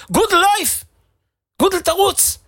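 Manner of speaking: high urgent shout of his name; retold shout. Passerby shouting at collapsing Gudel on death march, high urgent yell. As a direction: yell at him to get up and run. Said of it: "עובר מישהו וצועק לו".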